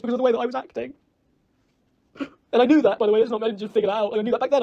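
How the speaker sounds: really worked up and blaming yourself; emotional. Real, not acted. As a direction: pour out the regret, voice climbing. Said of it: "I'm sorry for getting emotional".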